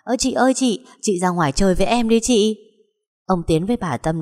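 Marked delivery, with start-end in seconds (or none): 0.0-2.6 put-on high-pitched eager little boy; cheerful childlike pleading; gleeful child. A narrator's reading. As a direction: beg happily to play, voice lifted. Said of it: "Rồi Long hớn hở chạy vào".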